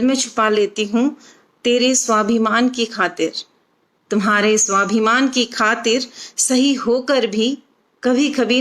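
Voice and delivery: measured, phrased verse reading with short pauses; expressive Hindi poem recitation; poetry recital. Acted. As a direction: recite it line by line, lifting each opening and letting the endings drop. Recites her own poem.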